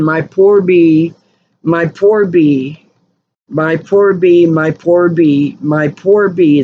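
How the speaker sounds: a hint of a sobbing child repeating himself; retold bawling child. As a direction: drag out each line like a little boy bawling. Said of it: "just bawling and bawling and bawling".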